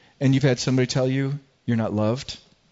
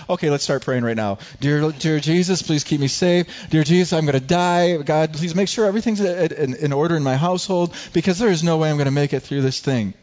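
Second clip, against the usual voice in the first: mock panicked prayer; 3 semitones higher than usual. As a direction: pray in hammed-up terror. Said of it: "I think I actually said it".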